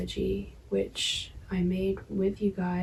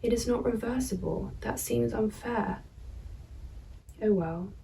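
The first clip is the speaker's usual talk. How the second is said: measured poem reading with pauses; poetry reading. Acted. Poet reading own verse to viewers, measured poetry reading. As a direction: read the verse evenly, pausing between phrases.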